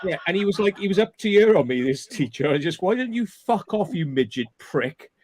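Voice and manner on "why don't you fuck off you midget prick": retold insult. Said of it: "I said to him".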